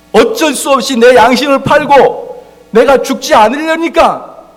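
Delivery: loud, high, slow pulpit preaching; full-force sermon climax; fiery preaching. Acted. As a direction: preach it hard to the congregation.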